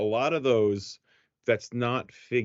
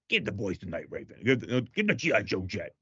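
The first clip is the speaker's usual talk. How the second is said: dad impression. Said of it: "the impression of your dad".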